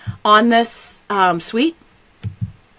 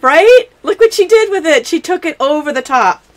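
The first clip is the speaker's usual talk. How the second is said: excited; 8 semitones higher, 7 dB louder than usual. Real, not acted. Showing off the gift.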